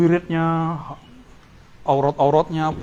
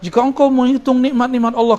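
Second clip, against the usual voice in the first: higher-pitched mock khutbah delivery; imitated sermon preacher; 7 semitones higher, 4 dB louder than usual. Teacher quoting the usual Friday sermons, imitated preacher voice. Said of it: "Biasanya kita dicekokin dalam khutbah-khutbah".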